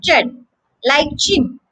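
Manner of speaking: "chen" said slowly, like "chin"; slow syllable demo. Shown as a demonstration. Teacher showing the second syllable, slow and careful. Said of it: "The second syllable is".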